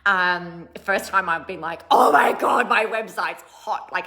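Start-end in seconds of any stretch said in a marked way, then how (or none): 1.9-3.9 loud burst then slow drawn-out delight; excited squeal. Retold or imitated. Raving about her rebuilt website, loud and delighted. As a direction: gush over the new website.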